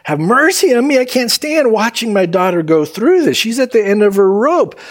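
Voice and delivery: acted anguish. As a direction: plead like a mother at the end of her rope. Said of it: "And so she is in anguish".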